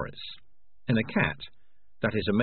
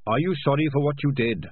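higher, earnest little rat voice; lightly voiced rat, raised in pitch; 7 semitones higher, 5 dB louder than usual. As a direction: ask it innocently as a small rat. Dangerous Beans questions Morris.

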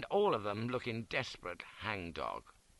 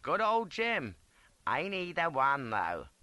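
soldier voice; 6 semitones higher, 4 dB louder than usual. A narrator's reading. Soldier speaks.

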